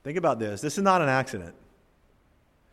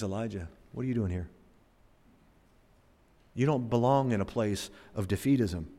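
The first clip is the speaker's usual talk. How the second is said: gentle merciful reproof; 5 semitones lower, 8 dB quieter than usual. Acted. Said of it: "a tacit reproof from our God, but it's also a very, very merciful one".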